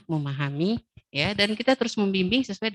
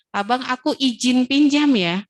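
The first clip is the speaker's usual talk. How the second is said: put-on higher, louder child's request; child asking permission, higher and louder; polite child asking; 4 semitones higher, 5 dB louder than usual. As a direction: ask nicely like a toddler.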